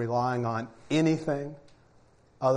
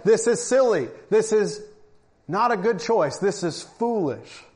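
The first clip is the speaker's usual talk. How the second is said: lightly voiced stern Samuel warning the people; mild scolding prophet; 3 semitones higher, slower than usual.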